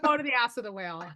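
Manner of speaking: laughing through the curse; tossing off the curse with a laugh. Retold or imitated. Telling someone to get lost, laughing. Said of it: "and you're like".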